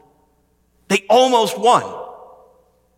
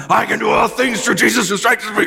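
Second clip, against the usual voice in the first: retold shouting; 8 semitones higher than usual. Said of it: "I'm shouting that verse".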